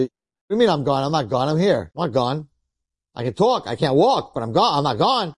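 lively, swooping protest; protesting patient. Acted. Man protests to medics that he's alive, indignant. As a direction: insist in disbelief, pitch bouncing.

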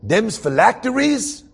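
high, slow, drawn-out question; imitating the man on the train. Stranger on the train asking about tefillin, high slow mock voice. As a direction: ask it like a wide-eyed stranger, slowly and high. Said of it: "he looks at me and he says".

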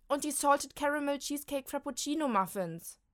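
wailing. Acted. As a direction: mourn the muffins. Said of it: "jammert Molly". (jammernd klagen)

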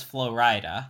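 Florida drawn out as flo-RYE-duh; rapper-name pronunciation. Shown as a demonstration. Doubting anyone says it so, flo-RYE-duh. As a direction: question Florida said like "flow rider". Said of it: that it's the name of a rapper.

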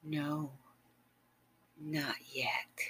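hushed teasing whisper; soft whisper. Acted. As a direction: deny him gently in a whisper. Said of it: "And you said".

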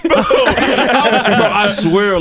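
loud, high, helpless laughter through the words; real laughter breaking up the sentence; laughing hard. Real, not acted. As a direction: crack up while swearing it happened. Cracking up at own embarrassing story.

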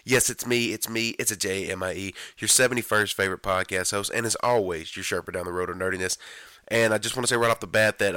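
hoarse voice going out; raspy voice. Real, not acted. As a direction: talk through a fading, raspy voice. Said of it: "I'm sorry if I sound raspy".

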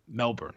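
Melbourne as "MEL-burn", r sounded; common pronunciation. Shown as a demonstration. Host argues what everyone else says, Americanized pronunciation. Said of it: "everyone else on the show is calling it".

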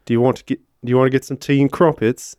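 tentative British accent; amateur British accent, lightly put on; British accent attempt. Shown as a demonstration. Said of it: "Can you do a British accent?".

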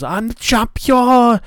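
high, slow, far-off victory scream; excited scream. Retold or imitated. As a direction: scream it like you just won the title. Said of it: "She was running around screaming".

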